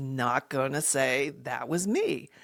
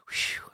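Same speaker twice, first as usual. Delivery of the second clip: whispered, airy whew; breath of mock relief; 5 dB quieter than usual. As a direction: blow out a retold sigh of relief. Retold relief after getting away.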